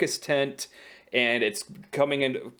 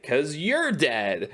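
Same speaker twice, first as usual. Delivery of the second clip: Agnes; 3 semitones higher, much slower than usual. Retold or imitated. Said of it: "And she's like".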